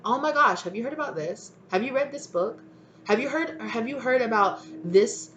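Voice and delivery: high-pitched, eager friend; acted gushing. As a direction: gush a string of suggestions, voice lifted. Acted friend gushes with suggestions.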